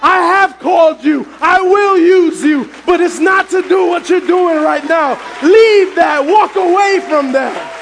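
slow, emphatic voice of God through a woman; transformed prophetic voice. Retold or imitated. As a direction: relay a divine command with deliberate, building weight. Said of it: "her voice transformed and it got deep".

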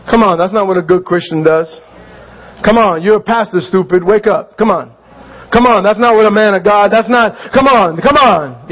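a hint of a harsh inner scold; inner critic. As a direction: berate yourself in a low, rough inner voice. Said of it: "and then I beat myself up".

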